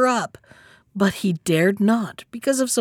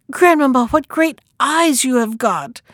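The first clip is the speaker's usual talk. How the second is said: put-on high little-girl astonishment; amazed child, pitched up; greatly amazed; 4 semitones higher than usual. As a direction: exclaim in wonder, leaping up on the first word. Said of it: "being greatly amazed".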